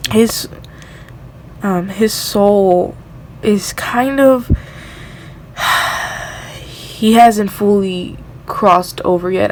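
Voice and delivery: slow, halting words with a heavy sigh; fighting tears. Real, not acted. Reader to viewers, slow and tearful. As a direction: push through the tears, slowly. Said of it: "I'm trying not to cry".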